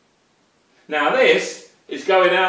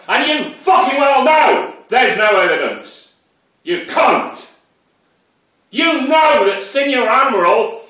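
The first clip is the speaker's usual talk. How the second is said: loud, high, furious tirade; real rage, yelled high and loud; furious shouting; 8 semitones higher, 6 dB louder than usual. Real, not acted. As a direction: tear into him, shouting. Ranting at the ex-policeman.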